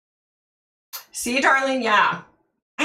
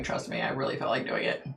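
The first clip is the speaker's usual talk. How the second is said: whisper; 7 semitones lower, 11 dB quieter, faster than usual. Real, not acted. Confessing urge to attack.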